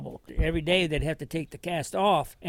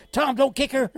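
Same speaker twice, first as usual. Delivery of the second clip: retold shout; 10 semitones higher, 6 dB louder than usual. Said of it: "everybody in the place said".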